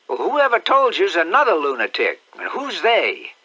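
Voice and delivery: outraged aunt after a stolen kiss; indignant aunt. Acted. Aunt Sally scolds.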